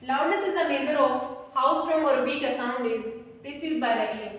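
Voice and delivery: slow, deliberate dictation for notes. Real, not acted. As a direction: read it out slowly so they can write. Dictating definition to students. (धीमे-धीमे लिखवाना)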